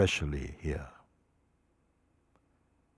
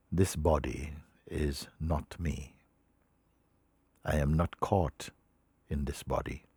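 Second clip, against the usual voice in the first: solemn reading; 4 dB louder than usual. Acted. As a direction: read it out like a sacred text, pausing between phrases. Reads a teacher's words aloud.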